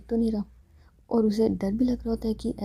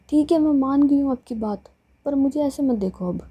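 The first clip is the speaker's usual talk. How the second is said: put-on shy girl; 4 semitones higher, 5 dB louder than usual. Seema hides face under blanket.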